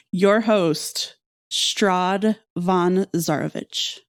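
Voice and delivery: drawn-out, ominous sign-off; slow dramatic signature. Pretend. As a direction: savor the villain's name slowly. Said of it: "your best dramatic reading of this".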